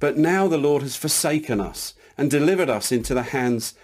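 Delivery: mild plaintive protest, high-pitched opening easing down; lightly acted complaint of a let-down man; Gideon, disappointed. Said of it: "You can hear the disappointment in his voice".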